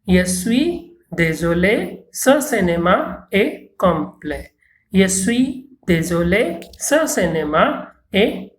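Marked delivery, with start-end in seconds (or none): 0.0-4.5 slow, careful French for learners to repeat; unhurried teacher demo, word by word; slow model reading. Shown as a demonstration. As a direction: say it slowly so the class can echo. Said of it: "avec, euh, après moi".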